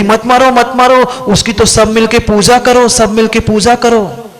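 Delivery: high, urgent mock pleading; storyteller mimicking a woman's high outcry; imitated crying out. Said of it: "चिल्ला रही थी".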